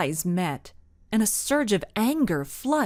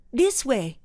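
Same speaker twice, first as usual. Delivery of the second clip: yelled; 4 semitones higher than usual. A narrator's reading. Templar guiding the mom, yelling. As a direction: call the escape route. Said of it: "he yelled".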